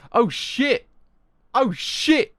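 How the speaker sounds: loud, high cry of shock; shocked outburst. Real, not acted. Reader reacts to a manga twist, shocked outburst. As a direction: burst out in real astonishment.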